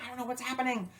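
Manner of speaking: high, flustered mock panic. Dancer confused by partner switching, high mock panic. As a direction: lightly play the lost beginner. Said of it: "Ah, panic".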